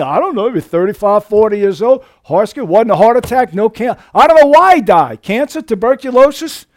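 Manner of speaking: a hint of a baffled coroner at the autopsy; puzzled coroner. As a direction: play a baffled coroner listing causes. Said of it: "the coroner's saying".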